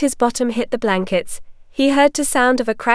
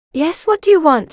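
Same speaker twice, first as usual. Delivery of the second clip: higher-pitched, mildly brusque challenge; gruff; 6 semitones higher, 3 dB louder than usual. A narrator's reading. Woman at the door to a stranger, gruff. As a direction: answer the door with a touch of impatience. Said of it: "she asked gruffly".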